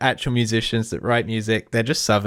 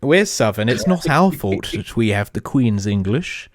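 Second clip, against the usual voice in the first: mock posh English. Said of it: "we're gonna sound so English".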